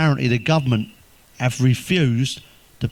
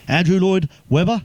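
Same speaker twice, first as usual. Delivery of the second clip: higher, laughing "Andrew Lloyd Webber?" rising; amused rising repeat; laughing disbelief; 5 semitones higher than usual. Real, not acted. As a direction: giggle through the name in mock disbelief. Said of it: "laughing repeat, mock disbelief".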